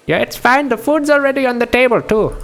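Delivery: put-on insistent Indian-accented high voice. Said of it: "I can't do Russian names in an Indian accent".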